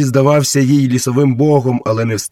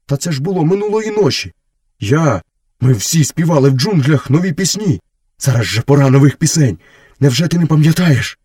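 higher, insistent wolf voice; protesting wolf brother; 5 semitones higher, 4 dB louder than usual. Acted. Wolf reminding Mowgli of last night, high and protesting. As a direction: protest in a raised character voice.

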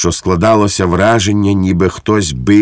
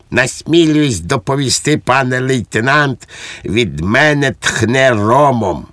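high-pitched, dutiful soldier's report; guileless dutiful Švejk, reporting; 6 semitones higher than usual. A narrator's reading. Švejk reports to the lieutenant that he smells, dutifully. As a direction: report obediently in a lifted voice, drawing out the end.

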